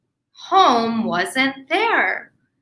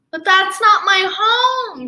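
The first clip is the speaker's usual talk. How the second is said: higher and firmer on not; penguin protest; 5 semitones higher than usual. Acted. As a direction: refuse politely. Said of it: "she said".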